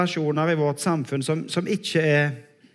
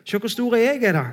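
mock bragging; 4 semitones higher than usual. Preacher imagining his own Facebook brag, mock boastful. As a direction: puff yourself up in a playful show-off voice. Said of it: "så hadde jeg sikkert skrøtt".

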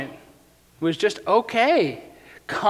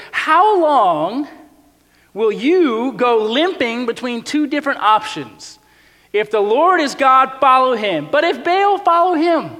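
higher, louder prophet's call; bold challenge; 5 semitones higher, 4 dB louder than usual. Retold or imitated. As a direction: Elijah daring the crowd to choose. Elijah challenges the people.

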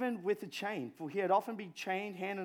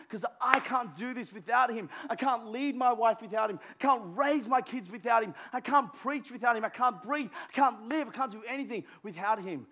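higher, louder run of confessions; fervent preaching; 4 semitones higher, 5 dB louder than usual. Real, not acted. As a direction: pour out your need. Preaching dependence, building fervour.

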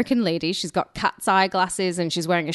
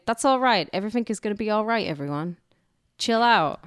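calm reassurance; 3 semitones higher than usual. Retold or imitated. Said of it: "And he's saying".

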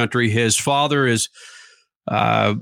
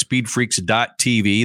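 "speedfreaks dot T V" said slowly, each letter spaced; radio host spelling the website slowly; slow spelled-out plug; 5 semitones lower, slower than usual. Shown as a demonstration. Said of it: "That's speedfreaks dot T V".

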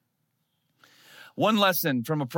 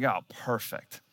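sarcastic; 5 semitones lower, 5 dB quieter, slower than usual. Retold or imitated. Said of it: "It's like".

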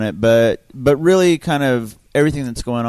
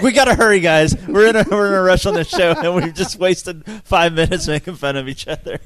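urgent rush; 3 semitones higher, 4 dB louder than usual. Retold or imitated. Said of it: "I'm like".

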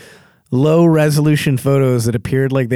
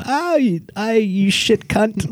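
put-on New Zealand accent; 8 semitones higher, slower than usual. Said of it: "New Zealanders never have a bad attitude".

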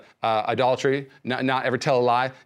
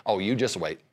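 pessimistic Christian. Retold or imitated. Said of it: "the pessimistic Christian ... says this".

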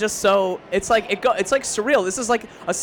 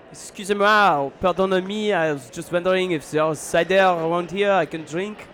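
English with a French accent. Shown as a demonstration. Guest demonstrates an accent on request, French accent. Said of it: "I will do the French accent".

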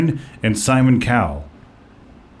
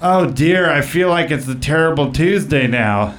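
Bruce Vilanch; 3 semitones higher than usual. Acted. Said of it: "I'm gonna play the part of, uh, Bruce Vilanch".

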